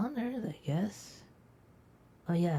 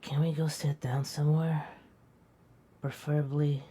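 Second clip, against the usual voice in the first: sleepy whisper. Acted. Tired friend asking to sit somewhere, whispered.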